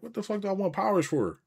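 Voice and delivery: high, exasperated disbelief at the whole idea; incredulous rant. Retold or imitated. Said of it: "I'm like".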